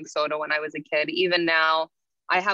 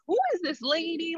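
incredulous; 11 semitones higher than usual. Retold or imitated. Shocked about strange woman.

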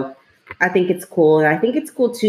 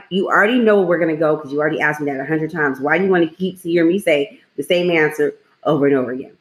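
retold exasperation; faster than usual. Mother retells answering repeated questions.

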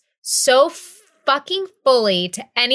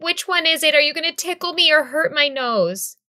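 lightly voiced child, slightly higher; Jack; 3 semitones higher than usual. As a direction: imitate a little son questioning the doctor. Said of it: "he's like".

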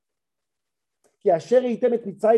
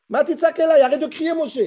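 God rebuking; 6 semitones higher, 3 dB louder than usual. Retold or imitated.

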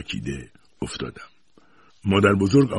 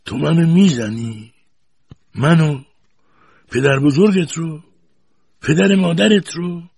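high, slow stunned questions; soft-voiced disbelief; 11 semitones higher, 7 dB louder, slower than usual. A narrator's reading. Grandfather knocked down, asking the boy in slow disbelief. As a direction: ask it slowly, unable to believe it. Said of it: "با صدای ملایمی پرسید".

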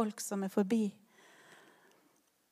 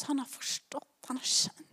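hushed; 7 dB quieter than usual. Real, not acted. Sermon hushed aside.

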